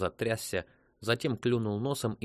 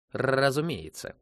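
slow, louder robotic reply; raised, drawn-out computer voice; 4 semitones higher, 5 dB louder, slower than usual. A narrator's reading. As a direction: trill the R like a machine. Computer replies in the story.

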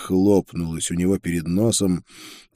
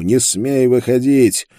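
loud, raised, drawn-out warning; barked order; 5 semitones higher, 6 dB louder, slower than usual. A narrator's reading. Narrator orders Karl to stay in his cell, barking. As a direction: bark a forbidding command. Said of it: "рявкнул ему".

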